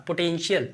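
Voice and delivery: पोटेंशियल said po-ten-shiyal with sh; teaching pronunciation. Shown as a demonstration. Teacher models potential for students. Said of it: "इसका भी उच्चारण सा".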